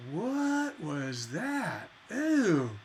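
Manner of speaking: slow, drawn-out put-off question, then a mock ew; grossed out by the song; a listener who hated the surprise, disgusted. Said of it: "We don't want".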